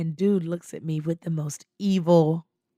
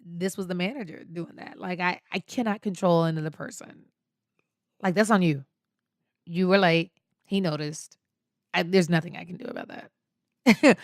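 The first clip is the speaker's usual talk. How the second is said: matter-of-fact, blank-faced retort; understated deadpan pushback. Retold or imitated. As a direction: state it plainly, refusing any blame. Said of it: "sitting there with the blank face".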